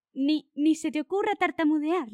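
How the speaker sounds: slow, loud, stern retort; a firm mildly acted rebuke; stern snap. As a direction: cut him off sternly. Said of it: "le espetó Luna muy seria".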